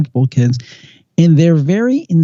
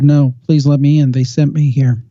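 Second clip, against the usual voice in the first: retold refusal, drone-like and unemotional; emotionless drone; 2 semitones lower than usual. Girl refusing the phone, emotionless drone. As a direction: lightly imitate a toneless, insistent plea. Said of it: "talking in kind of an emotionless, drone-like voice".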